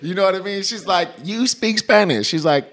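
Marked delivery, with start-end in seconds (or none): 1.2-2.2 high, drawn-out mock surprise; surprised retold question; amazed question. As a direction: imitate her astonishment, pitched up and slow. Amazed club door girl's question.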